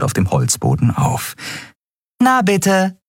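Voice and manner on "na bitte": viel höher, vergnügt; grinsend. A narrator's reading. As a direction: ein grinsendes Lob. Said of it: "sagte Nelen grinsend". (Nelen lobt grinsend, viel höher)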